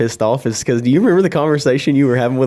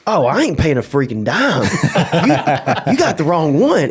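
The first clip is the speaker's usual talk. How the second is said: laughing mock quote; 5 semitones higher, slower than usual. Imitating D arguing on phone.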